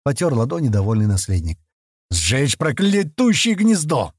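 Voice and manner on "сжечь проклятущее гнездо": grumbling. A narrator's reading. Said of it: "проворчали из-за спины".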